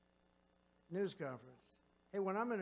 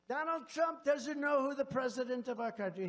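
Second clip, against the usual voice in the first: "Donald Trump" barked higher and loud like a headline; mock headline shout; 7 semitones higher, 7 dB louder than usual. Speaker mocking a news headline, loud and high. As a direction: yell the headline in mockery.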